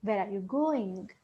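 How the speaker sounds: GOING eased down, softly; soft question with "going" stepping down at the end; falling tone. Shown as a demonstration. Teacher showing the pitch coming down the ladder, falling tone. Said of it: "the pitch doesn't go up. Rather, it goes down".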